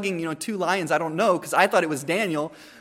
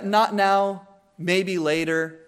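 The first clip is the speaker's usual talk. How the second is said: soft rejection; much slower than usual. Retold or imitated. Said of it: "soft rejection".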